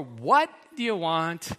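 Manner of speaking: clipped, hurried, let's get this over with; impatient. Acted. Jesus imagined in a hurry with the beggar, impatient. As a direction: rush him along. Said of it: "As in, "I'm on a tight schedule".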